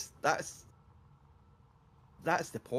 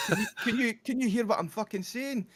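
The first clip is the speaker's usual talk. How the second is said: much higher, raised-voice mock shouting; retold shouting; 12 semitones higher, 5 dB louder than usual. Comedian shouting at the woman in the front row, mock shouting. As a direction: act out an incredulous comic yelling. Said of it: "He's shouting to the la-, the lassie".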